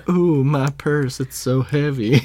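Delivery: slow, playful Southern-belle complaint; Southern accent. Retold or imitated. Repeating SpongeBob's southern lady line.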